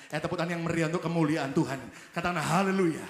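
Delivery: loud call to praise. Real, not acted. Preacher rousing the congregation to applaud, loud. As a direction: rouse the congregation to clap.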